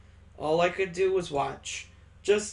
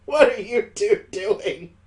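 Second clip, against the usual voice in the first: louder, higher disbelief; loud, pitched-up bewilderment; shocked question; 4 semitones higher, 6 dB louder than usual. Acted. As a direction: catch them in the act, startled. Friend walks in on them.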